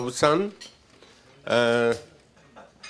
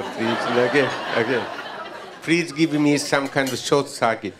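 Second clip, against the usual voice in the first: chuckling through a playful plea; amused, half-laughing appeal for a shortcut; laughing request; 4 semitones higher than usual. Real, not acted. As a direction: laugh as you ask a cheeky favor. Joking request for reservations.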